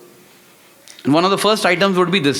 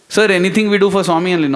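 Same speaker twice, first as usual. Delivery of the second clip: frustrated; 2 semitones higher, faster than usual. Retold or imitated. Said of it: "I said it with a kind of frustration".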